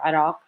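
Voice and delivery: Iraq closer to Arabic, "ee-RAHK"; native pronunciation variant. Shown as a demonstration. Lecturer from Iraq offers another way, Arabic-leaning pronunciation of Iraq. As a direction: say Iraq with an open "ah", nearer the Arabic. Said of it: "try to pronounce them closer".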